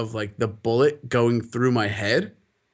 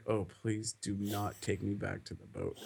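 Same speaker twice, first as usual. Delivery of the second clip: mock pleading under breath; 4 semitones lower, 14 dB quieter than usual. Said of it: "I'm like".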